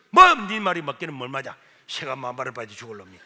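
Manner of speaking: mother scolding. Retold or imitated. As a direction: snap back at the son. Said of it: "아, 이래 욕을 하는 거예요". (아들을 꾸짖는 어머니, 큰 소리로 쏘아붙임)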